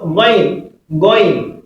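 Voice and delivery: "Going" as Arabic Ghayn, said ghoyn; correct Ghayn pronunciation. Shown as a demonstration. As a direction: model "Going" singly for learners. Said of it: "correct pronunciation is what".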